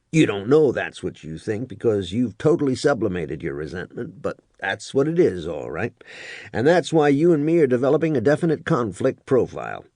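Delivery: a mildly smug top sergeant analyzing his man; first sergeant. Acted. First sergeant lectures Hooper.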